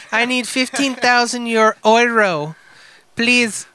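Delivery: put-on European accent drifting into Peruvian; shaky attempt at a European accent. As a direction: plead in a muddled European accent. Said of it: "a European accent".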